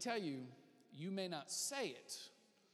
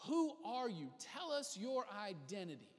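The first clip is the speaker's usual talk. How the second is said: raised, mildly demanding question; confrontational questioning. Retold or imitated. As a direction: press for an answer, imitating the questioners. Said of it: "They're there to question".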